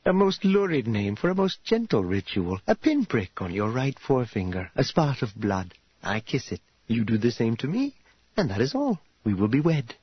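lightly voiced, courteous and reassuring hostess; reassuring formal bride. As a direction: explain a gentle ritual with formal ease. Voices Karya soothing the groom.

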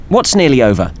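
put-on high-pitched nasal young woman voice; chirpy nasal girl voice. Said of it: "a high-pitched nasal voice chimed in".

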